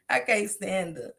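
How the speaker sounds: usual speaking voice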